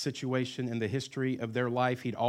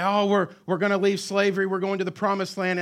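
excited crowd; 9 semitones higher, 10 dB louder than usual. Retold or imitated. Crowd leaving slavery excitedly.

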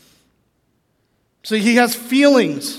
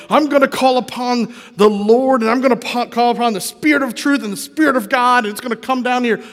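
mock summoning; 2 semitones higher than usual. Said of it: "like the Mighty Morphin Power Rangers".

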